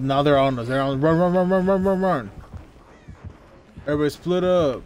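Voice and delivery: urgent, loud and rushed; panicked call to run; being chased. Real, not acted. Killer chasing the team.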